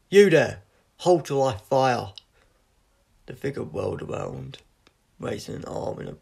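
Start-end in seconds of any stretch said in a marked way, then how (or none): 0.1-2.1 very loud, high barked command; yelled challenge. Acted. Sentry challenging the silver figure at the gate, full yell. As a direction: roar it at the intruder, slow and commanding. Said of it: "Then he yelled".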